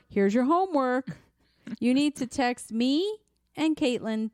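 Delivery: lightly voiced teacher giving homework; a hint of a patient schoolteacher; mock teacher. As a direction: spell it out slowly, as if to kids. Mimics giving parents homework like kids.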